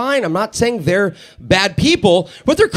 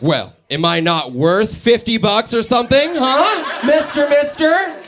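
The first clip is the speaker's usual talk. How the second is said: put-on sassy girlfriend act; 3 semitones higher, slower than usual. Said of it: "And then I'm like".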